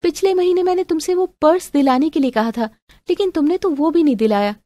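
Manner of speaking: high-pitched pouting complaint; sulky girlfriend. Acted. Girlfriend reproaching boyfriend over a purse, sulky. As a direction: whine with a pout.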